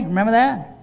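usual speaking voice

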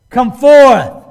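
loud command. Acted. Preacher imagines Jesus appearing in the clouds, loud command. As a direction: shout it as a commanding call. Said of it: "the loud command".

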